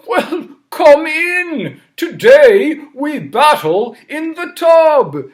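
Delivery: high, loud, slow welcome; cheerful king in his bathtub; jolly king. Acted. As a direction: boom a hearty royal welcome. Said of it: "And King Bidgood said".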